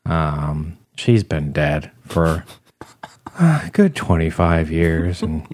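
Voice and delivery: lightly voiced gloomy office dweeb; deadpan sad sack, slow in places; sad Ferb voice. Ferb McDuff tells his grandmother story, lightly voiced and glum. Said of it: "that's not a very good voice".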